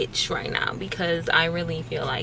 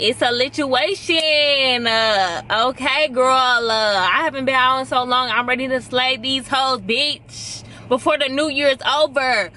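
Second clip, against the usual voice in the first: hyped sassy; 5 semitones higher than usual. Pretend. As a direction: pump yourself up for a night out. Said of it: "No, I'm just playing".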